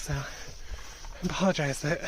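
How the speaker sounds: winded from the steep hike; breathless, gasping between words; out of breath. Real, not acted. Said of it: "I'm a little out of breath".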